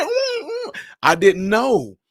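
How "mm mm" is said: mock whimpering sob. Wife sniffling after tears.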